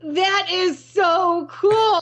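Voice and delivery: hammed-up amazed president voice; president impressed. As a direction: gush over it like the president. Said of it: "he kind of paused and he said".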